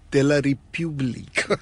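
République in a put-on French accent, as "ree-pyoo-bleek"; mock French correction. Shown as a demonstration. Co-host correcting the festival's French name, put-on French accent. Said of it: "it should be".

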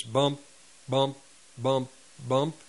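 BUMP repeated as separate heavy beats; "bump," evenly punched with a pause after each; imitated heavy footsteps. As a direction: space out each "bump" like a footfall. Imitating footsteps on floor above.

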